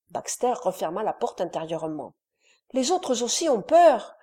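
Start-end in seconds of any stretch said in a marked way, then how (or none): 2.7-4.1 higher small frightened voice; a little boy admits fear; timid child. A narrator's reading. Dole says the others are scared too, timid. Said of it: "avait dit Dole".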